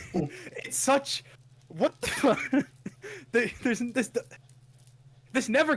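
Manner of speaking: high, laughing what the fuck; laughing in disbelief at the scene. Real, not acted. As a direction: crack up in disbelief.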